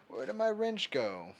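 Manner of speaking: sudden high, loud puzzled call; where's my wrench. Real, not acted. Streamer to chat about a missing wrench, high loud puzzled call.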